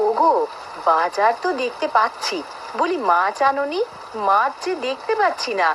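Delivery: very high-pitched nagging; high, complaining wife. Acted. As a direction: question him sharply in a high wifely voice. Wife scolds husband over missing fish.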